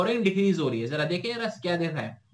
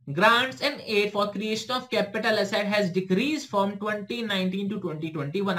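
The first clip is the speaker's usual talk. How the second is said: reading the question word by word, very slowly; slow dictation reading; much slower than usual. Shown as a demonstration. Teacher reading an exam question to students, slow and measured. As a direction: spell it out slowly for students to follow.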